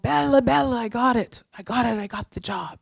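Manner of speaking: high, excited retelling that softens at the end; excited boyfriend. Retold or imitated. Boyfriend calling to say he got the job, imitated excitement. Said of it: "he's so excited".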